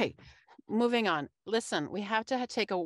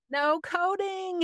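ad read; 12 semitones higher, slower than usual. Acted.

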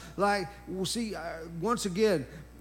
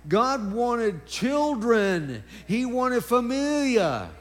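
higher-pitched, insistent sermon delivery; energetic preaching; 4 semitones higher, 3 dB louder than usual. Real, not acted. Preacher tells congregation why they were created, energetic preaching. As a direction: preach it with rising conviction.

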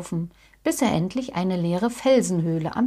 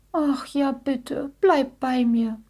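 higher, mildly pleading little voice; happy, grateful; 5 semitones higher, slower than usual. A narrator's reading. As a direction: accept with relief, lightly childlike. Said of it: "antwortete Jackie glücklich".

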